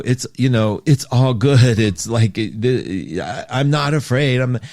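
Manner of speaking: halting, stumbling false reassurance; lying reassurance. Acted. Host showing how we lie to ourselves, falsely reassuring. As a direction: stammer through an unconvincing denial of fear. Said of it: "Lying is when we go".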